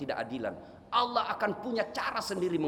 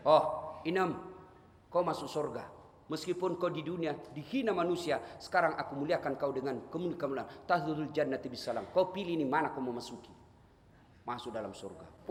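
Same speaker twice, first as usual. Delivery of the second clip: tender welcome. Acted. Angel welcomes the maid Inem into heaven, gentle and solemn.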